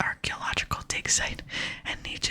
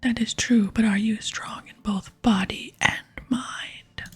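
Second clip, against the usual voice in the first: weighty stage whisper; barbarian mentor; 2 semitones higher, 5 dB louder than usual. Pretend. Barbarian tests the visitor's mettle, weighty stage whisper. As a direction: press the question like a proud strongman.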